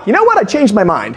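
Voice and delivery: teasing, very high "You know what?"; mock change of mind. Prankster cancelling the promised money, high teasing. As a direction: pull the rug out playfully. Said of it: "And I'm like".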